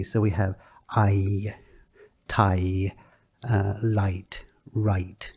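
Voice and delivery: "I", "light", "right" drawn out, x0.7; chewy long vowels. Shown as a demonstration. Teacher showing chewy long vowels in "light". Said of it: "a bit of chew to them".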